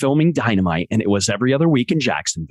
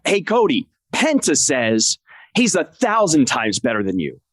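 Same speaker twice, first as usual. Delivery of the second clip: passionate translator; 2 semitones higher than usual. Retold or imitated. Translator relays a wrestler's taunt to Cody, passionately. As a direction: stretch it out with a touch of passion. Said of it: "I have to be passionate too".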